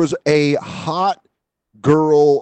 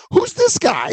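much higher, jealous who's-this; suspicious question; slower than usual. Retold or imitated. Boyfriend questioning his girlfriend about a pool photo, high and suspicious. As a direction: ask it like a boyfriend catching a photo.

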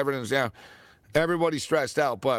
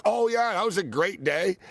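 mock fond enthusiasm; 4 semitones higher than usual. Host imagines the player fondly recalling his big game, mock enthusiasm. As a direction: play the happy reminiscing he never gave. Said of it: "he really had zero, lo-, like".

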